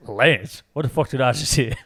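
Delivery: quick comic movie-quote disbelief; Jack Black. Acted. Friend repeating a Tropic Thunder line, comic impression. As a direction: toss off an incredulous impression. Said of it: "that was a good Jack Black impression".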